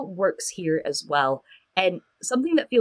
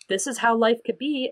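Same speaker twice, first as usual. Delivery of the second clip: higher-pitched, lifted quote; offered promise; 4 semitones higher than usual. Retold or imitated. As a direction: lift the voice, dangling a possibility. Hopeful option set against threat.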